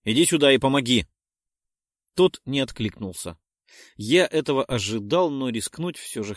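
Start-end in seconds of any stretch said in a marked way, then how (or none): 0.0-1.1 shouted call. Acted. Calling for help.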